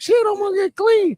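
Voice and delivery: retold thought. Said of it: "I'm like".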